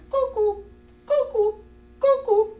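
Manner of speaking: high sing-song cuckoo call; cri du coucou. Retold or imitated. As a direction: imitate the cuckoo bird, high and bright. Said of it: "Il va faire". (imiter le coucou, voix aiguë)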